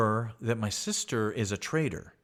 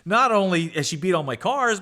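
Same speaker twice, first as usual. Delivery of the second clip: usual speaking voice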